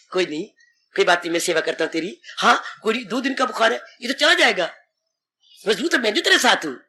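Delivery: calm the sick one down gently; reassuring. Retold or imitated. Strong person comforts the sick.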